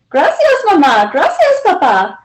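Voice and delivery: a lightly voiced small girl; little girl. A narrator's reading. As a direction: thank them like a shy little girl. Child voiced on the phone.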